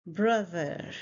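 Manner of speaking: BROTHER slowly, buzzed th in the middle; pronunciation demo. Shown as a demonstration. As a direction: model BROTHER for learners, drawn out. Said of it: "Again, the sound".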